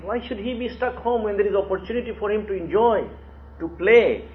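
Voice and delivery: imitated coaxing sales pitch; selling the idea. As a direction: talk a father into an outing. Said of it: "trying to sell the idea".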